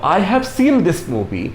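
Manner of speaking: very slow, word by word; slow example read. Shown as a demonstration. Teacher showing the perfect tense example, very slow. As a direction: spell the sentence out slowly for learners. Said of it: "तो".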